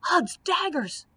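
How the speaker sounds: high, ringing battle oath; roaring oath. Acted. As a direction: bellow it like a charging knight. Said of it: "roared the knight".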